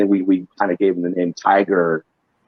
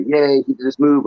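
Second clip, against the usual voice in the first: higher-pitched mock cheering; mock fan cheer; 7 semitones higher than usual. Fan cheering a wrestling move, mock cheer. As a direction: imitate an excited wrestling crowd.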